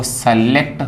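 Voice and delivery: सेलेक्ट with से as first syllable; common mispronunciation. Shown as a demonstration. Teacher quotes what people often say, common mispronunciation. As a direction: open the first vowel to से in सेलेक्ट. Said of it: "ये सही इसका उच्चारण नहीं है".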